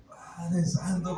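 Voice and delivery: drawn-out stunned Padre santo, slow; slow amazed exclamation. Retold or imitated. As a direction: let "Padre santo" stretch out slowly in disbelief. Stunned on hearing news.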